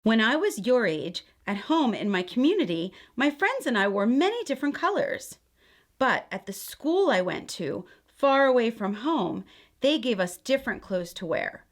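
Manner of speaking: gentle, expressive read-aloud; storybook reading. A narrator's reading. Aunt reading a picture book to children, gentle storytelling. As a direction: read it like a bedtime story for kids.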